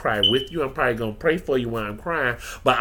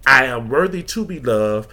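building, louder affirmation; rising declaration; 4 dB louder than usual. Retold or imitated. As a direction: declare it, getting louder line by line. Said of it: "as my good life coach sister, best friend say".

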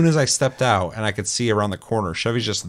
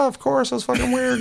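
mock agreement. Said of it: "I'm like".

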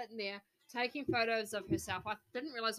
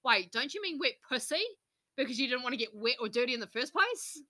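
cocky; 2 semitones higher, 4 dB louder than usual. Retold or imitated. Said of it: "pure cockiness".

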